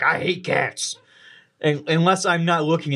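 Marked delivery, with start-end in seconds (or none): 0.0-1.0 a hint of a huffy dog voice; lightly voiced sniffy pet; dog's fake disdain. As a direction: voice the dog pretending not to care. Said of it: "puts on this act for me".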